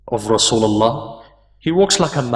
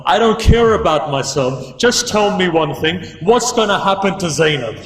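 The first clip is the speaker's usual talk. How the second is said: higher-pitched, urgent pleading; a grandson pleading in distress; anguished plea; 4 semitones higher than usual. Retold or imitated. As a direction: plead in a raised, emotional voice. Acted plea to his grandfather.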